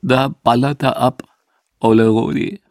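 choked up with tears; words squeezed out through held-back tears; tearful, choked voice. Acted. Max watches the crematorium smoke after the funeral, choked with tears. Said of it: "mit tränenerstickter Stimme".

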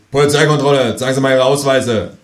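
put-on mild alpine Austrian accent, loud; a gruff Austrian policeman's accent. A narrator's reading. Policeman demands passports in an Austrian accent. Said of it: "mit stark alpinem Akzent".

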